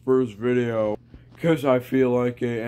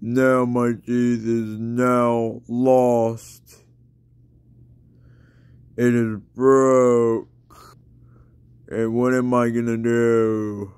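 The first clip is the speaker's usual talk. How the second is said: toothless voice. Pretend. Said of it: "J K, I got my teeth".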